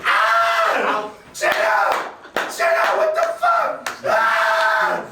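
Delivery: high shrieking mock scream; shrieking high-pitched panic; turned into a screaming girl. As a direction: squeal like a terrified girl. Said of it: "I turned to a bitch".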